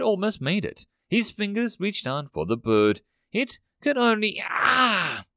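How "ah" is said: short sharp cry of pain, pinned under a foot; a quick hurt gasp-cry; a soldier's brief cry as he's crushed. Acted. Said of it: "he cried out".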